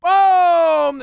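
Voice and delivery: high, loud excited presenter; hammed-up game show host. Mocking the quiz host cheering the coin, high and loud. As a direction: hype the coin drop like a TV host. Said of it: "the host presenter's getting into it".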